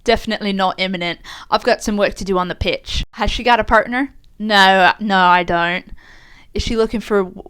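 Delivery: a light mock English accent, read aloud; reading the interview as an Englishwoman; Leah Williamson accent. Co-host reads the footballer's interview in a light mock English accent. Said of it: "starts to read the interview with Leah's accent".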